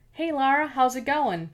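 a light, bright Australian lilt, called out; lightly voiced Australian scientist calling back; Australian accent. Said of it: "in her silky Australian accent".

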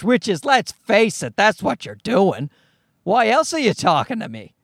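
usual speaking voice

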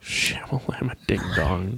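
breathy playful whisper, slow; whispered joke. Pretend. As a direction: whisper it like a spooky jingle.

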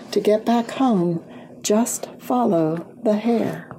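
reading a verse. A narrator's reading. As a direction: read out the mysterious rhyme, pausing between lines. Reads a rhymed riddle aloud.

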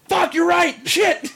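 high, laughing exclamation; high laughing "you're right" curse. Retold or imitated. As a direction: crack up at your own mistake. Realizing friend is right.

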